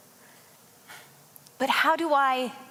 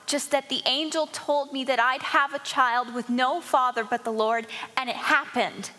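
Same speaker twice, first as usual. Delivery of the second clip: retold defensive explanation; 3 semitones higher than usual. Mary telling Joseph about the angel, mildly defensive. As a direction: explain it urgently, trying to be believed. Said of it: "I said".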